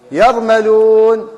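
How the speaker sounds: يرملون stretched very slowly, letter by letter; drawn out for the class to hear each sound; slow spelled-out word. Shown as a demonstration. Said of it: "إيش رأي الكلمة هذه؟". (نطق بطيء جدا لكلمة يرملون)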